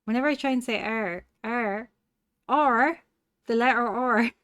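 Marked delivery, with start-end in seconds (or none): 1.4-4.3 hard rolling pirate-style "R", getting louder. Shown as a demonstration. Streamer struggling to say the letter R, pirate-like R. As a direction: lean on "R" like a pirate's "arr". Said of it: "I sound like a pirate".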